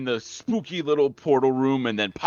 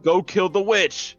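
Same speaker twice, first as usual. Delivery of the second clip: higher, slow lady voice; wacky lady; 8 semitones higher, slower than usual. Retold or imitated. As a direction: lightly imitate the lady giving orders. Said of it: "she was like".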